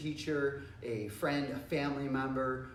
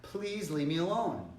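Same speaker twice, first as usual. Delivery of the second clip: firm, slow plea; even stronger; 3 semitones higher, slower than usual. Shown as a demonstration. Teacher models a further warning to a pest, firm and slow. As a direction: press each word with firm intent. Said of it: "be even stronger yet".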